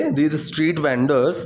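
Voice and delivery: very slow model phrase. Shown as a demonstration. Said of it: "teacher models phrase very slowly".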